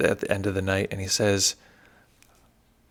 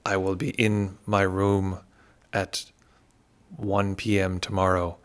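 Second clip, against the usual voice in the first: slow, deliberate put-on Burmese accent; a lightly done, self-admittedly bad Burmese accent, dragging each phrase; terrible Burmese accent; slower than usual. Teacher imitating the stern Burmese meditation master's announcement to retreatants, in a slow, bad Burmese accent. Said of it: "a terrible Burmese accent".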